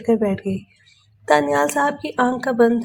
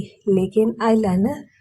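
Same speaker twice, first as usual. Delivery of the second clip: a hammed-up little plea over the eyeliner; mock wail. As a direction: whine it like a tiny tragedy. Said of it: "عائشہ نے دہائی دی".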